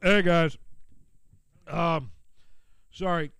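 talking while chewing chicken; mouth full. Real, not acted. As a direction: speak round a mouthful. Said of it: "sounds like I'm eating chicken".

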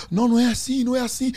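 high, hurried backtracking; high-pitched placating protest; retold flustered denial. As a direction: imitate a friend protesting. Friend backtracking in retold argument.

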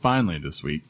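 strained groaning read, redone on request; like a man in pain croaking it out; dinosaur voice. Acted. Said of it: "Do it again".

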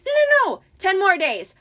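very high, panicked falsetto; flustered pretend bride. A narrator's reading. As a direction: plead frantically in a squeaky high voice. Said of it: "in his falsetto voice".

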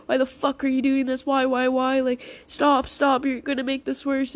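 imitated self-berating. Speaker retelling past panic self-talk, mock self-berating. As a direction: act out beating yourself up, repeating urgently. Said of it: "instead of beating myself up and being like".

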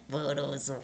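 "Porosa" said through a low giggle; amused and laughing at how it sounds. Real, not acted. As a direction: giggle out the silly word. Laughs at the word again.

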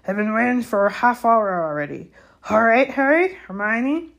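grumble, then hail the friends brightly; gamekeeper, impatient then friendly. A narrator's reading. Hagrid kept waiting, then greeting friends heartily.

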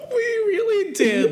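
high crying laugh; laughing so hard it squeaks. Real, not acted.

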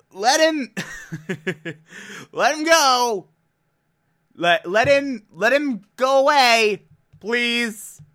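high, laughing plea. Real, not acted.

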